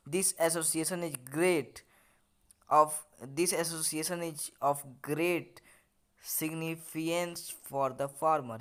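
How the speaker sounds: slow, word-by-word English reading; textbook read-aloud. Acted. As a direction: read the lesson out slowly, in separated chunks. Reads lesson text aloud slowly. (धीरे-धीरे पाठ पढ़ते हुए)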